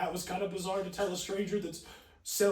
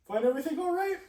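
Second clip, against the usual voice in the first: laughing cashier line; 8 semitones higher, faster than usual. Retold or imitated. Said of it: "And I went".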